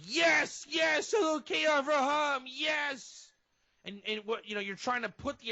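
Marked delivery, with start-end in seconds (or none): 0.0-3.3 high, loud eager yelling of the prayer; hammed-up zeal, shouting yes to heaven; fervent rookie praying. A rookie davening hard, fervent mock shouting. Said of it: "and you're like".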